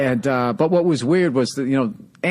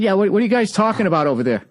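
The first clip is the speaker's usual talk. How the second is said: pointed repeat; 8 semitones higher, faster than usual. Retold or imitated. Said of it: "I said".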